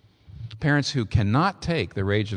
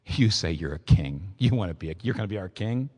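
mocking; 3 semitones lower than usual. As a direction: retell the taunt with understated scorn. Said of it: "and we mocked him".

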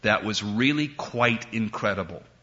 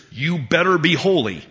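louder, a hammed-up scolding demand; mock stern warning; 4 semitones higher, 4 dB louder than usual. Preacher mimicking what people have heard, mock stern. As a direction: wag a finger as you say it. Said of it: "How many of us have heard that".

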